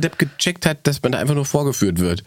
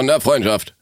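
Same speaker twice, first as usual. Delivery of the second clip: Thorsten Sträter impression. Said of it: "bisschen Thorsten Sträter, der aus mir rauskam".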